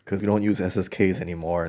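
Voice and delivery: huffy correction from an imagined sailor; mock Navy heckler. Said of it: "in the interest of that one random Navy guy".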